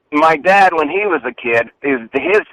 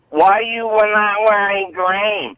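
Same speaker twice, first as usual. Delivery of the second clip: mock accusing question; 5 semitones higher, slower than usual. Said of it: "I had to justify myself".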